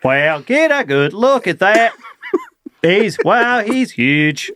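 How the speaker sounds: put-on a light Australian accent; lightly voiced wildlife presenter; Steve Irwin impression. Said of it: "That's my Steve, well, Steve Irwin".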